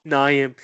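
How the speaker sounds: "Naeem" said loudly with stress up front; echoed mispronunciation. Retold or imitated. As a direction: repeat the mangled "Naeem" with emphasis.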